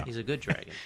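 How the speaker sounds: low, soft dragon rumble. Shown as a demonstration. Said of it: "You can't do a good dragon voice?".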